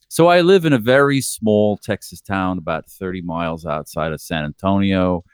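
put-on slipping John accent. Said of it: "The accent's going all over the place".

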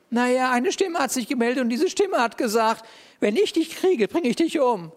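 Elijah, a bit worried, telling God about the threat; Elijah explaining. Pretend.

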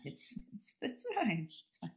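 muttering under breath. Real, not acted.

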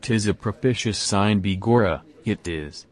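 lightly put-on Irish accent; a hint of stage Irish accent. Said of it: "on me farver's side was Irish".

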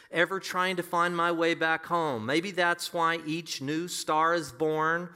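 measured, lifted reading of lyrics; preacher reciting heartfelt verse; verse recitation. Acted. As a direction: recite the lines like a poem, drawing out the key phrases. Recites song lyrics from the pulpit.

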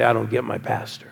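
a member voicing doubts under the breath; lightly voiced discontented churchgoer; hushed quote. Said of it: "when they say".

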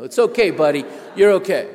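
loud, high, patronizing buddy pat; mock the guards soothing their dim pal loudly; booming reassurance. Voicing guards soothing liberal buddy.

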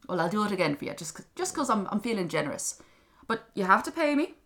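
lightly voiced haggling imp; grudging little creature. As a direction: offer it like a self-pleased leprechaun. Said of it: "the little thing said".

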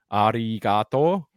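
"Arigato" slowly, drawn out; rolled R. Shown as a demonstration. Showing friends Japanese thanks, slow "Arigato" with rolled R. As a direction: stretch "Arigato" out, rolling the R. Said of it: "So you always roll the R".

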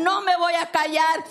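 blind man's defiant vow, half-shouted; rising declaration, near a shout; defiant cry. Acted. Blind Bartimeo refusing to be silenced, half-shouted and defiant. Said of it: "lo callaban y decían".

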